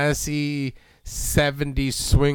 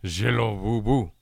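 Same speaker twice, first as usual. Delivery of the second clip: low, slow mock Italian crooner; sultry Italian voice; 5 semitones lower, 3 dB quieter, slower than usual. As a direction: purr it like a smooth Italian lounge singer. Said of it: "It's, it's sultry Italian voice".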